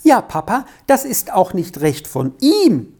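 high, lightly voiced child; little daughter calling out. A narrator's reading. Little daughter answering her papa, calling out in child's voice. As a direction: pipe up eagerly as a little girl. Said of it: "rief das Töchterlein Squirrel".

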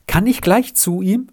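high, hurried eager ask; eager question. A narrator's reading. Rita eagerly asking her father to go to Seppli. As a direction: blurt it out, can't wait to go. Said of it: "fragte Rita eilig".

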